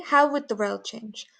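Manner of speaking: "How" lifted, "would" passed over lightly; would left unstressed. Shown as a demonstration. Teacher modelling natural speech, "would" unstressed. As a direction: keep "would" weak and short. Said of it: "we don't stress it when we speak".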